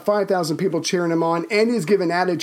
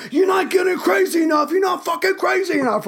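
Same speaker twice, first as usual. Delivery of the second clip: much higher shouted rock-star rant; impression of a rock singer; 12 semitones higher than usual. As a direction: bellow at the crowd like a rock singer. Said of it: "I don't do a rock-singer voice".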